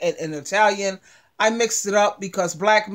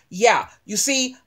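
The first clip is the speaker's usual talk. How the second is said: ordinary talk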